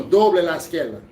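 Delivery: izquierda said as "iskel-da", the R turned into an L; capital-city Dominican R as L. Shown as a demonstration. Demonstrating how capital-city drivers say izquierda with an L. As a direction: swap the R in izquierda for an L, Santo Domingo style. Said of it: "change the R to an L".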